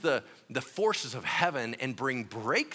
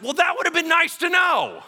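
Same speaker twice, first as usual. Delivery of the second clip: much higher, louder exasperated whine; sarcastic complaint; 14 semitones higher, 9 dB louder than usual. Acted. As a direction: throw it back at him, annoyed. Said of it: "they're like".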